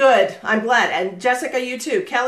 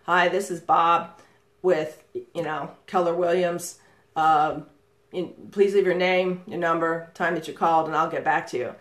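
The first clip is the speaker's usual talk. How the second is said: monotone voicemail; 3 semitones lower than usual. Shown as a demonstration. Man with no voice inflection recording a dull voicemail greeting. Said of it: "difficulty with voice inflection".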